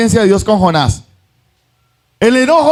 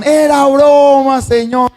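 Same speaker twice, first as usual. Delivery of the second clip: panicked yell; 7 semitones higher, slower than usual. Retold or imitated. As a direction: take it back in a hammed-up panic. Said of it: "Y ellos gritaban".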